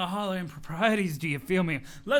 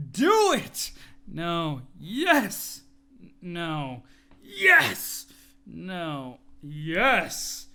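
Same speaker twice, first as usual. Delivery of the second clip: insistent yelling; 2 semitones lower, 5 dB louder, much slower than usual. Acted. Muscle bro out-shouting Dirk, insistent yells. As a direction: yell yes over and over like a stubborn bro.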